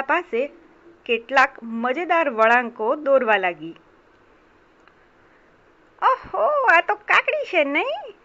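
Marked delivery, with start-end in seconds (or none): 6.0-8.1 high, stretched-out mouse delight; hungry mouse spotting a treat; lip-licking delight. Acted. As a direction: savour it greedily, pitched high. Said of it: "હોઠ પર જીભ ફેરવતા ઉંદર બોલ્યો".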